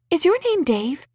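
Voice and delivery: high, tentative question; bright tentative woman. A narrator's reading. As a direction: ask it sweetly, feigning doubt. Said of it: "Bridget ventured".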